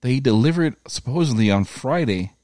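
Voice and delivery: high, worked-up disbelief; exasperated. Retold or imitated. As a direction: rant it up high and fast. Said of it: "I was like".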